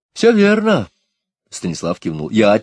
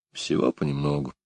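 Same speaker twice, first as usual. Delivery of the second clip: philosophically; 4 semitones lower, 8 dB quieter than usual. A narrator's reading. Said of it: "философски ответил Гуров".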